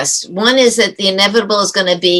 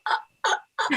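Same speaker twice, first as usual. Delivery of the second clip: hushed, voiceless "uh, uh"; stunned stammer; 9 semitones higher, 13 dB quieter than usual. Retold or imitated. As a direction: stall wordlessly, as if caught off guard. Retold stunned stammer at awkward question.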